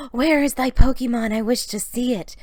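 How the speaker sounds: Sarah begging to see the new Pokemon; eager gasp. A narrator's reading. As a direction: ask to see it at once. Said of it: "Sarah gasped".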